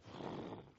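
blown whoosh of a rushing cloud; short voiceless whoosh; imitated whoosh. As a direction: blow air out like sudden wind.

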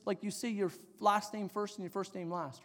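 ordinary talk, nothing marked

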